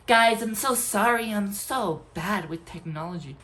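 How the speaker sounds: lightly voiced, slow, sheepish teacher apology; mocking a clueless teacher. Teacher apologizing to the class, mildly mocked. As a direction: mimic a helpless lecturer saying sorry. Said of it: "That's so cringe".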